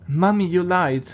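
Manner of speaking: put-on a small child proudly telling his mommy; childish creepy voice. Jeff catches his lying mother.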